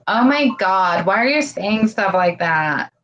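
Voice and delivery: put-on Valley Girl voice. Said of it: "I love that Valley Girl imitation".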